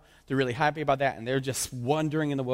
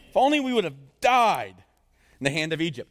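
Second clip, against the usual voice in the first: whiny Israelites; 4 dB louder than usual. Acted. Preacher mimicking Israelites to congregation, mock lament. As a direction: ham up the wish to have died.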